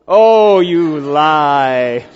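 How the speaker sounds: loud mock accusation; playful loud rebuke; loud teasing retort. Real, not acted. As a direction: call them a liar in fun. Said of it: "'Cause I know I do it".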